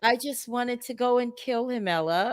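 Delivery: softly mimicked innocent confession; quiet, innocent. Host imitating the guest's confession, quiet and innocent. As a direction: drop to a small, harmless-sounding voice. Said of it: "how quietly and innocently she said that".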